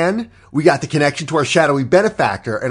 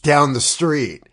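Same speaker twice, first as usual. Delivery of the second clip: casual villain; 2 semitones lower, much slower than usual. Retold or imitated. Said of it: "And he's like".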